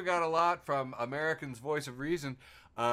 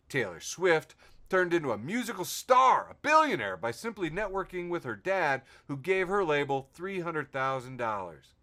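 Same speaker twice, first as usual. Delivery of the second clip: lifted, higher mock motivational delivery; mock-inspirational reading; 5 semitones higher, 5 dB louder than usual. Host reads fake inspirational post to listeners, mock-inspirational. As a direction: build up the big words, then settle.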